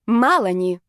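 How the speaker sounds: usual speaking voice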